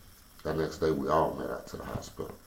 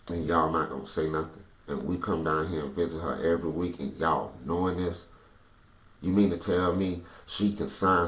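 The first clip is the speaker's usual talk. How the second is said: building from firm complaint to furious shouting, much louder and higher; angry rant; 3 semitones higher, 5 dB louder than usual. Retold or imitated. To hospital staff, furious he was never told, building to a shout. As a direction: snap at the hospital staff until it boils over into a yell. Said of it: "Man, I snapped".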